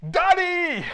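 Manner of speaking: high, very loud call; shout. Shown as a demonstration. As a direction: yell for your father with full voice. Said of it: "You need to shout".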